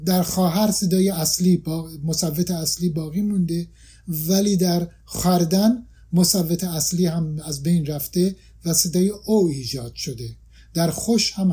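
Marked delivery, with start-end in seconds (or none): 5.0-5.9 خردن said slowly as "khʷardan"; old pronunciation. Shown as a demonstration. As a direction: keep the "a" after kh in خردن. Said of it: "اگر با تلفظ قدیم بخوایم تلفظ کنیم".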